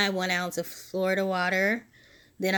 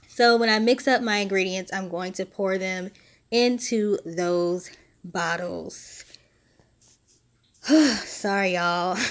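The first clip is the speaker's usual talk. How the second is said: short of breath, breathy pauses. Real, not acted. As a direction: talk while winded from asthma. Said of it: "I'm running out of breath".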